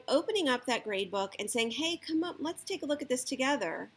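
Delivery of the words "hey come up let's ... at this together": inviting. Shown as a demonstration. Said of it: "not like".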